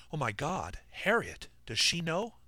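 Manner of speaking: high alarmed cry; panicked. Acted. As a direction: panic at the thought of his wife. Job panics about wife.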